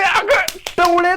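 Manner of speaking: slow, stretched अगं टवळे with अगं drawn long; stretched-out अगं टवळे, high and slow; slow drawn-out insult. Shown as a demonstration. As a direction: drag out अगं टवळे mockingly.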